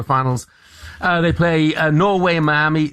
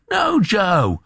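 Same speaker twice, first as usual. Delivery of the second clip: a quick, higher-pitched cry of protest; mock dismay; 6 semitones higher than usual. Real, not acted. Host rebuffs a gloomy listener text, protesting in mock dismay.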